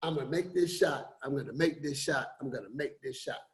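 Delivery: quiet shooter's mantra fading away; self-talk. Retold or imitated. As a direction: murmur a focused vow to yourself. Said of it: "I gotta say".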